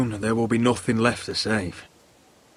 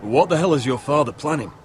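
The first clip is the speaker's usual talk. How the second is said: raised, forceful demand for answers; heated, higher-pitched questioning; alarmed demand; 4 semitones higher than usual. Acted. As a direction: press hard for the truth. Demands answer after alarming revelation.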